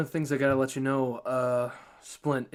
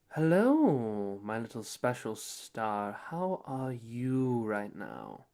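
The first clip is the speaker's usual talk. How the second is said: sweet menacing mother; slower than usual. Acted. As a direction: coo it slowly like a creepy mother. GM voices Mother on phone.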